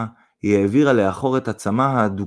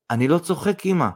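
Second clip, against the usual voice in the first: higher-pitched, earnest protest; serious; 7 semitones higher than usual. A narrator's reading. Son assures his mother, serious. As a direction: insist you mean it. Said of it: "ברצינות ענה אדיק".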